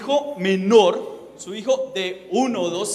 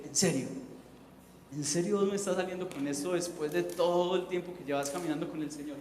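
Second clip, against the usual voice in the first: exasperated disbelief; 2 semitones lower, 10 dB quieter than usual. Retold or imitated. Exasperated at a longtime believer.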